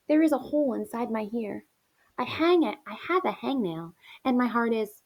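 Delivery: rhythmic, dramatic list of ailments; expressive poem reading. Acted. Teacher reading poem to class, rhythmic complaint. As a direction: recite it as mock-suffering verse.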